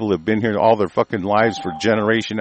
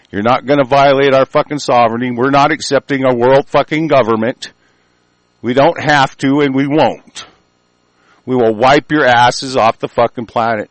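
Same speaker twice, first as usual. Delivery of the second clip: loud, raised furious threat; furious shout; 3 semitones higher, 4 dB louder than usual. Real, not acted. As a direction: shout it down at them. Ranting threat at government.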